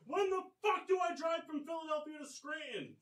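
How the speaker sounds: high shouted rant; yelling. Real, not acted. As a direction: shout the complaint. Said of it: "we are yelling".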